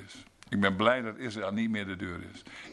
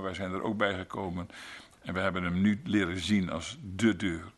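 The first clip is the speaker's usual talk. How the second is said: thankful congregational prayer; closing prayer. Acted. Closing prayer after sermon.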